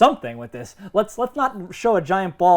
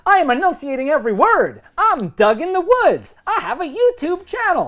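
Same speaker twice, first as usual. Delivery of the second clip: enunciating every word; 8 semitones higher, 3 dB louder than usual. Retold or imitated. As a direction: spell out each word like bad YouTube acting. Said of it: "everything you're saying, you're like".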